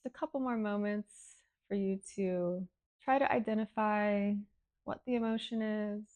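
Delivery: calm breathing-exercise guidance with long pauses; guided meditation. Real, not acted. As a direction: gently lead them through the exercise. Leads breathing and emotion exercise.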